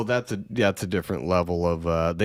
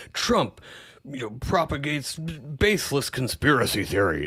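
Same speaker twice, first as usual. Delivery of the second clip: mock news anchor; 5 semitones higher than usual.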